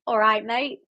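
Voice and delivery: a half-hearted go at Australian; lightly attempted Australian "mate"; botched Australian accent. Streamer trying out Australian slang for viewers, botched Australian accent. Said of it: "that wasn't Australian".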